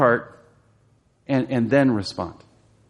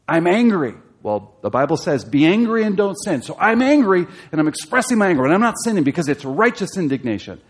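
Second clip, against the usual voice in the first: mock self-justifier; 6 semitones higher, 3 dB louder than usual. Mocking a believer justifying anger.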